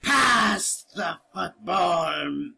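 slow hammy pirate line; badly acted pirate drawl; bad acting. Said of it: "I'm sorry for my bad acting".

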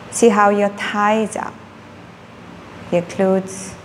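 unhurried meditation guide with long pauses; calm instructions, one body part at a time; guided body scan. Real, not acted. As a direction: guide them gently into relaxing, leaving space between phrases.

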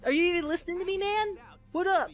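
nervous sidekick pleading over a zombie outbreak; panicky dubbed sidekick. Pretend. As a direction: voice the character as a nervous wreck. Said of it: "let's make him like".

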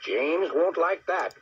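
stern scolding. Acted. Boss tells Donald off over upset plans, stern and emphatic. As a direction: lay down the consequences, mildly annoyed.

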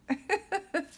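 short high giggle of surprise; bright high laugh; high surprised laugh. Real, not acted. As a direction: laugh at the repeat. Same card keeps appearing.

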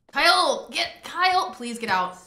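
calling out. Real, not acted. Shooing a sim out of bathroom.

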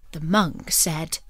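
usual speaking voice

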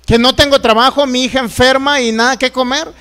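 mild re-enacted yell of protest; indignant retold complaint; retold cry to God. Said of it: "Una vez le grité".

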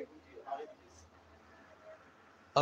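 slow whispered wait; student whispering to wait. Real, not acted. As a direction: breathe it out slowly. Student hushing during recording.

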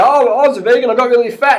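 mock a complaint about getting fat; whiny ex-vegan.

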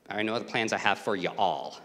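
"you all" said with a light Southern lilt, plural stressed; Southern reading. Shown as a demonstration. Preacher rereads the verse in Southern style, lightly voiced. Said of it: "it would be better in the Southern".

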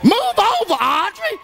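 mock rude shove-off. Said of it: "I know you".

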